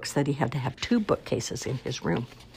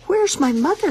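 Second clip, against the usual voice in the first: high, squeaky little chick voice, a bit louder; a newly hatched chick calling for mom; tiny baby bird; 5 dB louder than usual. Acted.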